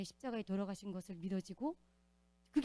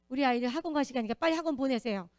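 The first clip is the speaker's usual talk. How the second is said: impatient demand; 3 semitones higher, 7 dB louder than usual. Retold or imitated. Quoting an impatient mother on the phone.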